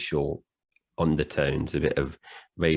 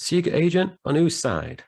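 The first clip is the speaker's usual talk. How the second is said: incredulous sheriff's outburst, much higher; J W Pepper; 13 semitones higher, 4 dB louder than usual. Acted. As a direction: jump up high and louder, in sharp disbelief. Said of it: "J W goes".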